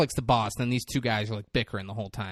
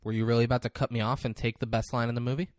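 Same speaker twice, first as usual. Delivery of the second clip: indignant rant, escalating to an incredulous yell; mock outrage; 4 dB louder than usual. Host scolding co-host for stealing the best line, mock outrage.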